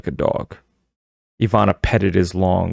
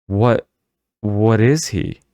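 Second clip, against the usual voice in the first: frightened cry; 3 semitones higher, slower than usual. A narrator's reading. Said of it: "I cried".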